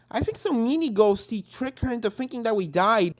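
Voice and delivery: cheerful pony. Acted. Friend explains.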